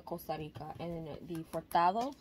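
light Spanish accent on the names; little Spanish accent. Real, not acted. Coffee fan listing pods to try, little Spanish accent. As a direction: say the names with a slight Spanish lilt. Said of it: "like a little Spanish accent".

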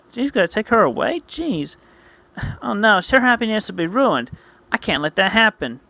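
hammed-up distress; acted dismay. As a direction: fret aloud like a cartoon hero. Distress at foreseen ruined wedding.

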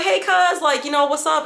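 high, bright-pitched mock of the cousin's friendly hello, with a laugh; cheerful cousin greeting. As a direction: play the cousin happy to see her at the door, voice up high. Cousin greets her at door.

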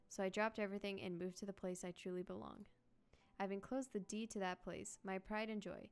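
even, softened storybook reading; letter read aloud. Acted. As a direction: read a heartfelt letter aloud, quietly and evenly. Reads grandfather's letter aloud.

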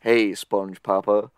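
a hint of a low smooth crooner; lightly voiced smooth sexy Gary. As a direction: purr it, slow and seductive. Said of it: "smooth, sexy voice".

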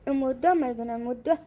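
put-on low, doting murmur to a baby; tender petting. Parent pets own darling child, tenderly.

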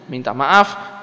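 ordinary talk, nothing marked

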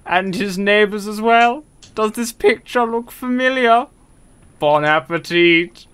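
lightly voiced cartoon figure; deliberate character voice, slowing at the end; Mister Popo. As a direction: keep up the measured impression. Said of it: "that's actually quite a good voice for him".

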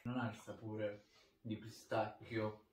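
talking between bites; chewing while speaking; mouth full of ice cream. Real, not acted. Seen 0: Left man bites and holds ice cream at mouth while talking.

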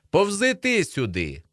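high, drawn-out holler; calling out. A narrator's reading. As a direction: holler back across the field. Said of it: "тоді гукає".

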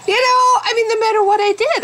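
high laughing burst. Real, not acted. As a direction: laugh it out, real amusement. Laughs at epoxy idea.

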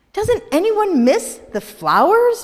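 high, loud cry; Vivian cries out. Acted. Vivian cries out to the townsfolk, high and loud. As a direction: cry it out in despair. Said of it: "Vivian cried".

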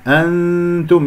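slow أنتم with hidden, nasal noon; nasal ikhfa. Shown as a demonstration. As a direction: hold the ن of أنتم as a hum near the ت. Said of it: "نون تاء، أذهب إلى مخرج التاء". (إخفاء النون في أنتم)

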